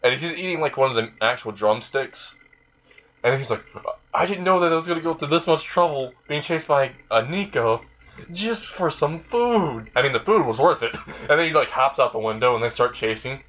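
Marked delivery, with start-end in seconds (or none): 4.1-9.9 higher, put-upon grumble, drawing out the end; mock-exasperated protest; exasperated complaint. Azazel chased by Konako for food, exasperated.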